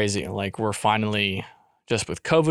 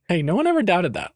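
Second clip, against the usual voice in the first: higher-pitched, casual reassurance; light reassurance; 6 semitones higher than usual. Acted. Husband answers her boast of being funny, lightly reassuring. Quick reassurance, then solemn repeat.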